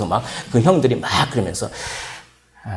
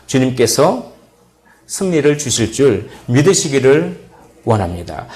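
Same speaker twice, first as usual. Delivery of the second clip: rising, ringing sermon cadence; preaching; 3 semitones higher than usual. Acted. Pastor preaching to his church, ringing sermon voice. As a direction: preach it, building toward the call.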